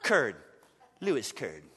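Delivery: a hint of suave spy, low and soft; lightly mock a cool agent; Bond-style name. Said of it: "try this".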